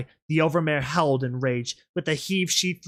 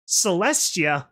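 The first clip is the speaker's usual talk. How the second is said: slow sneering echo of Celestia; mocking; 4 semitones higher, 4 dB louder, slower than usual. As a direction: drag out Celestia with scorn. Mocking echo by Rainbow Dash.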